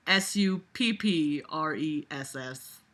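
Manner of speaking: slow mocking letter-by-letter spelling. Shown as a demonstration. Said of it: "spells it out".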